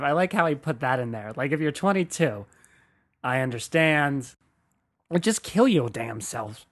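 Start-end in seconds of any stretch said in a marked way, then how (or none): 5.1-6.6 light, half-put-on Black American accent on the punchline; a hint of a Black American accent, tossed off. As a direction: slip briefly into a Black American accent while quoting. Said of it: "I did a fucking black accent".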